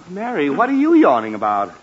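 loud irritated demand; exasperated. Acted. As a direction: challenge the yawner. Father exasperated by family yawning.

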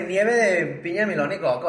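sing-song León ice-cream vendor call; cantadito. Retold or imitated. Friend imitates León ice-cream sellers, sing-song. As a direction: draw out the vendor's local lilt. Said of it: "así como cantadito".

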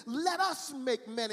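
slow, deliberate words of command; power and authority. Retold or imitated. Preacher quotes God making man, with power and authority. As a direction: declare it slowly, with authority. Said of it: "He said it with power and authority".

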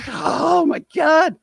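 shocked outburst. Retold or imitated. Finding the mess on his bed, shouting in shock. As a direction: draw out a loud, high gasp of disbelief.

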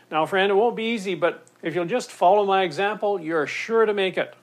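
lightly voiced would-be coach; encouraging boater. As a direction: cheer on a struggling swimmer. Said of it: "the boater jumps in and says".

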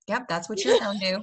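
put-on matter-of-fact hillbilly accent; podunk parent. Parent confirms it to the child in a podunk accent. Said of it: "This is, like, real podunk".

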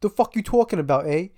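loud, high Long Island tough guy; Long Island accent. Pretend. Mock Long Island reaction.

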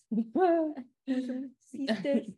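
very slow mock-English accent; fake English accent. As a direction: drawl it in put-on English. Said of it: "faking an accent".

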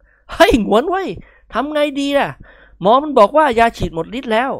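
high, breathless panicked blurting; stammering in panic. A narrator's reading. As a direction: gabble it out in fear. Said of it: "บอกอาเสียอย่างละล่ำละลัก". (นิกรบอกเสี่ยหงวนอย่างละล่ำละลัก ตกใจ)

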